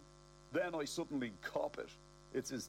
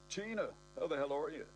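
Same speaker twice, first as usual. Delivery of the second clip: sexy voice; 5 semitones higher than usual. Acted. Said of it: "in my famous sexy voice".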